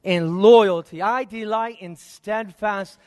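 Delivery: lightly voiced divine declaration; slow, weighty scripture quote as God; God speaking. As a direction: declare it slowly, with a touch of God's authority. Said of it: "this is God talking".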